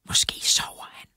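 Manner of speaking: hushed whisper. A narrator's reading. Narrator to Lara outside the trailer, whispering. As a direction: whisper so nobody inside hears. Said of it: "hviskede jeg".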